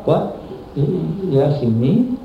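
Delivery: a touch of stunned disbelief at the question; mock incredulous reply. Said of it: "he was just incredulous".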